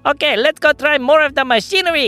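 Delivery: high, eager character voice; excited ringleader. Acted. Pim Pim urges the boys back to the shed, excited.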